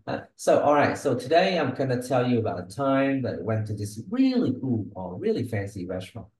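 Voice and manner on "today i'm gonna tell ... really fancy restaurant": "time", "really" and "fancy restaurant" picked out; natural retelling with emphasis on "really fancy"; stress on key words. Shown as a demonstration. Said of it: "it sounds a bit different".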